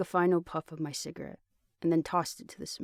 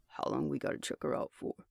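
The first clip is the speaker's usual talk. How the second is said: softer, hushed aside; hushed whisper; 3 semitones lower, 5 dB quieter than usual. Acted. Buddy sneaking a question to his friend, hushed. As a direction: lean in and murmur the question.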